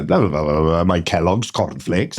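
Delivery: playful mock Welsh mumble; mock Welsh joke. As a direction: tease the way people joke about Welsh. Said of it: "that's the joke that people do".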